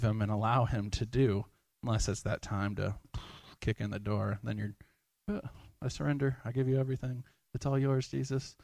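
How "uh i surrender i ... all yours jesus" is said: higher, pleading give-up voice; hammed-up reluctant surrender; mock surrender. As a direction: act out caving in after the door is kicked. Mock forced surrender quote.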